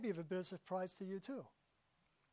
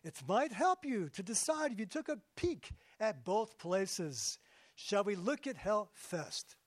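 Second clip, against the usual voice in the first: light Yiddish lilt for God; a touch of a Jewish-accented God. Acted. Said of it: "God said".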